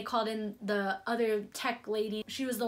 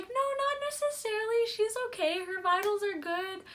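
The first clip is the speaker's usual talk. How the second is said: lightly voiced nurse, much higher pitch; imitating the nurses; 10 semitones higher than usual. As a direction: reassure her in a high, sing-song nurse voice. Nurses reassure worried new mother.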